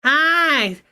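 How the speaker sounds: a hammed-up eager cool mom, bright and pushy; mock cool mom. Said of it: "she's gonna be one of the cool moms".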